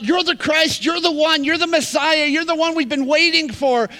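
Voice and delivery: a touch of crowd shouting acclaim; excited proclamation. Retold or imitated. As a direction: cry it out as the crowd's answer. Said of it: "had them call out".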